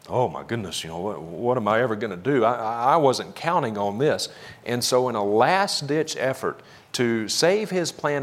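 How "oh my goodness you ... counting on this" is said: flustered, stammering mock panic. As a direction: play at being caught off guard, tripping over the words. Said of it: "God just went into a panic".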